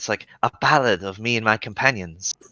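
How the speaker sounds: quiet, hushed whisper. Voicing a character in a group role-play, whispering. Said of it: "get into like whisper a little bit".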